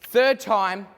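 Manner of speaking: brisk auctioneer patter working the room; auctioneer call. Acted. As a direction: drive the bidding like a real auctioneer. Mock auction, student calling bids.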